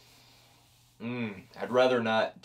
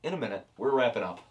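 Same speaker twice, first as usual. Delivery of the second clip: high, far-off falsetto wife; squeaky put-on voice of the wife; 14 semitones higher, faster than usual.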